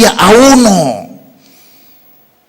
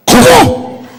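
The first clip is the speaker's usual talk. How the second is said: high, startled squeak of disbelief; shocked cry. Retold or imitated. At the theatre door, told he is foreign: a high startled yelp.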